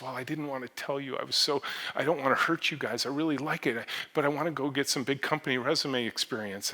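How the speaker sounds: lightly voiced young woman close to tears; teary employee quitting. Employee telling the boss she's leaving, on the verge of tears. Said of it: "she came to me almost in tears".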